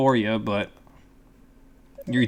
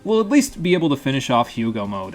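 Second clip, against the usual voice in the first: holding back a burp; stifled burp; 3 semitones higher, 4 dB louder than usual. Real, not acted. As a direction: talk around a held burp. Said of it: "Sorry, I'm holding back a burp".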